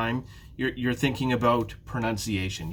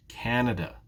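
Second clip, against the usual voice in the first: "Canada" with CAN as the strong beat; teacher's model of "Canada", stressed at the start; stress on first syllable. Shown as a demonstration. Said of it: "it's the first syllable".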